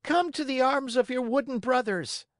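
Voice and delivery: high, warm puppet invitation; loving Harlequin. Acted. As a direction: welcome him with open arms.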